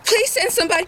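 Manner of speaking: hushed, desperate plea; frightened whisper. Acted. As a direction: whisper it in terror. Chased, pleading into phone.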